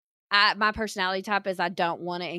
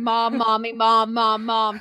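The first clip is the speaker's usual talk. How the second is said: imitated child's screaming; 2 semitones higher, 5 dB louder, slower than usual. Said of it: "waiting for you to scream".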